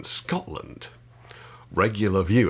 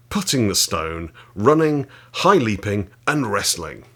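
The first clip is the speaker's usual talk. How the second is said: a firm, louder read-aloud voice; 4 dB louder than usual. Acted. Reading chapter six of the wrestling book to viewers, with relish. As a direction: read the old text out with relish.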